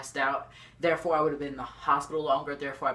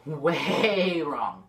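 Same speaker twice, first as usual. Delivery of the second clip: laughing through it, a bit louder; 4 dB louder than usual. Real, not acted. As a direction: laugh at how wrong you were. Laughing at own mistake.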